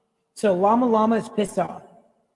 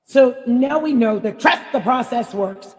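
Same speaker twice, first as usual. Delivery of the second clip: ordinary delivery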